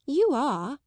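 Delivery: high, pert insistence; pert girl. A narrator's reading. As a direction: insist pertly. Jessie insisting.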